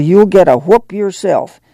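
a firm, fierce threat; fierce warning. Acted. Ma warning Winfield off whipping Ruthie, fierce. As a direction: shut the boy down hard. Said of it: "Ma said fiercely".

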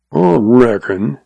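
slow, lightly growled reply. Acted. Old rancher thinks it over, growling slowly. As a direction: draw it out with a hint of growl. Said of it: "he growled".

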